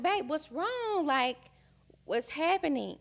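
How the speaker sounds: retold gentle alarm at a loved one's distress; worried wife. Wife asking her crying husband what's wrong, worried.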